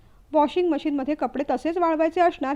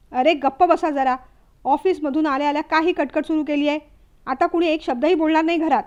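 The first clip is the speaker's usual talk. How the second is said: fed-up shout; 4 dB louder than usual. Acted. Husband stops the quarrel.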